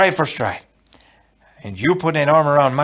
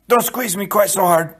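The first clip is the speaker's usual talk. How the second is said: Inigo's voice; 7 semitones higher, 3 dB louder than usual. Acted. Inigo complains, then Fezzik echoes.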